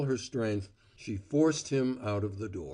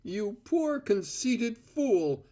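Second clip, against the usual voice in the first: higher, slow contemptuous cry; cried out; 12 semitones higher, slower than usual. A narrator's reading. Cora scorning Val, a slow contemptuous cry. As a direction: drag out the insult. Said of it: "she cried".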